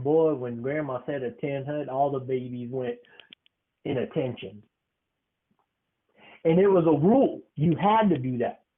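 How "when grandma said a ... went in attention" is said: hushed telling. Acted.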